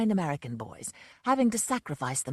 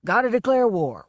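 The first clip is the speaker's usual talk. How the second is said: put-on loud drunken; 5 semitones higher, 9 dB louder than usual. A narrator's reading. Drunk declaring war.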